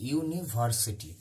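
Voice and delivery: ইউনিভার্সিটি slow, each syllable drawn out; slow sounding-out. Shown as a demonstration. Teacher showing the same example, ইউনিভার্সিটি slowly sounded out. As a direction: stretch ইউনিভার্সিটি into clear separate syllables.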